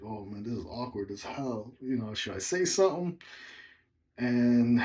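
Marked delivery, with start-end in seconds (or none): 0.0-3.2 awkward. Retold or imitated. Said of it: "just like".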